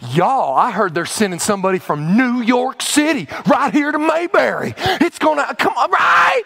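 excited, rising gush about the big visitors; lightly voiced small-town flattery, a touch giddy; flattered small-towner. Pastor imitating Hezekiah as small-town host, mildly giddy. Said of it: "He's flattered".

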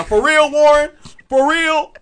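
loud, high-pitched mock disbelief; hammed-up high female impression; Lacey. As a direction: challenge him as an offended woman, voice way up. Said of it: "can't you hear Lacey's voice".

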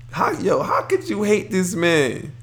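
high, slow, disbelieving plea; excited. Real, not acted. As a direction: pitch it way up in disbelief. Excited defense of LeVar.

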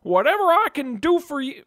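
genie voice. Acted. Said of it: "I'm mixing up my voices".

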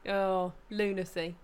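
slow, stretched oh, lunacy; drawn-out lunacy. Shown as a demonstration. Friend mock-sighing at Americans hating roundabouts, drawn out. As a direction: savour the word lunacy slowly. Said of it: "drawn out".

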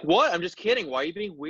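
mock gaslighting. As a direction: imitate someone brushing off the blame. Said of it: "pull some gaslighting nonsense and be like".

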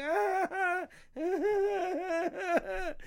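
silly high repeated ah sounds, mascot style; high goofy dance noises. Acted. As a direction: bounce through the ahs like a dancing mascot. Costume character dancing for passersby.

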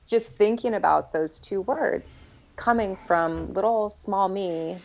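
choked up. Real, not acted. Guest explaining what moved her, choked up. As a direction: push on through a tight throat. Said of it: "choked up".

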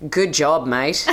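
attempted Australian mate, laugh creeping in; Australian accent. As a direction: read it in a lightly put-on Australian accent. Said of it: "please read in your best Australian".

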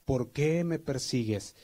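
a voice from heaven calling Saul; voice of Jesus. Retold or imitated. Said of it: "oyó una voz que le decía".

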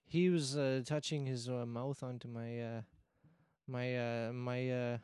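put-on broken English in a Borat-style Russian accent; lightly put-on Russian accent, bragging. Igor the Russian guest tells his karaoke night, Russian accent. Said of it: "your accent kinda trailed off".

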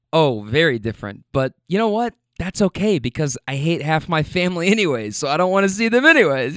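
put-on a light South American accent. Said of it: "so I'm trying to do the accent".

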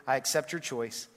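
slow, settled, final; slowly. Acted. Man on the bridge finally letting go, said slowly. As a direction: let each word land slowly. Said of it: "said slowly".

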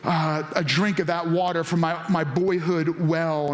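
a hint of a tired king daydreaming; wistful longing. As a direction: muse aloud like remembering boyhood. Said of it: "dreaming and wishing".

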